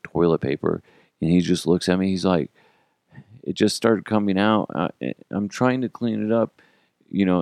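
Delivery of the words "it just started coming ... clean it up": lightly voiced small child; a hint of baby voice; little baby voice. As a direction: imitate a little kid explaining, only a touch higher. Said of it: "in his like, little, little baby voice".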